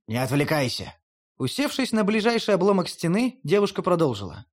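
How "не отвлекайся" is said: put-on lower, gruff grumble from the old wolf. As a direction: mutter it like an impatient wolf. Wolf voice repeated. (ворчливо, чуть ниже обычного)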